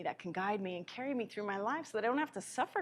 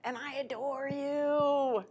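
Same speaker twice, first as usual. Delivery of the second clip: slow, higher, louder loving divine voice; voicing God; 3 semitones higher, 6 dB louder than usual. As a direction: speak as God, slow and swelling with love. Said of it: "God is saying to you".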